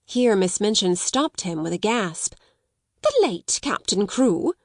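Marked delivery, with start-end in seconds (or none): 3.0-4.5 cried out. Acted. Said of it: "she cried out".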